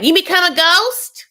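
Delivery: put-on high, loud-ish childlike question; grandkid. Grandkid asking grandma about her surgery, imitated high child voice. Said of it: "one of the grandkids is like".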